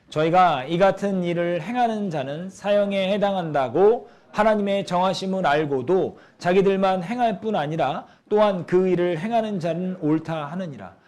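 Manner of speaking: slow, measured reading aloud of scripture. Acted. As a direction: read the verse out to the congregation, drawn out. (성경 봉독하듯 천천히 낭독)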